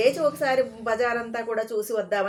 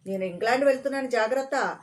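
mock threat; 2 semitones higher than usual. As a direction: rattle off a haughty threat. అని చెబుదాం అనుకున్నాను.

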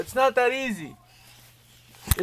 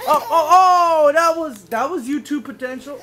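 laughing excitement; 4 semitones higher, 4 dB louder than usual. Real, not acted. Baby mishap on camera, laughing.

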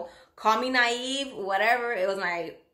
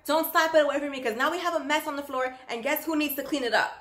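stern scolding; 6 semitones higher, faster than usual. Retold or imitated. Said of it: "infuriated me even more".

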